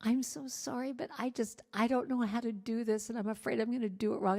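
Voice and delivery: sheepishly asking the desk staff for help; sheepish apology. Retold or imitated. Embarrassed to the desk woman, sheepish and soft. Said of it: "so sheepishly came up and said".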